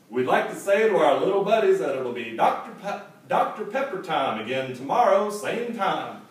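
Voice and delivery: liturgy-style recitation. Retold or imitated. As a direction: recite the ad like a call in church. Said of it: "like they were reciting a call and response church liturgy".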